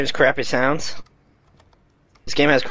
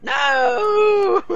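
high shouted no; anguished shout; 13 semitones higher, 4 dB louder than usual. Real, not acted. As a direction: cry out in despair. Lost all gear.

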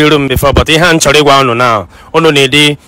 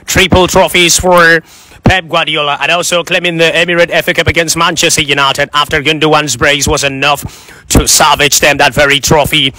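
put-on UK accent. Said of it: "I'll start with U K accent".

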